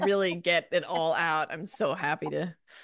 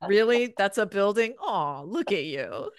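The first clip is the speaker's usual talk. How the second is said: condescending New Yorker; 5 semitones higher than usual. Retold or imitated. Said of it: "that's the whole energy".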